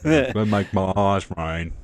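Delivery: slow, lightly voiced Simple Jack; a hint of Simple Jack, unhurried. Keeping the movie bit going with a friend, slow light impression. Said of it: "I just go into Simple Jack".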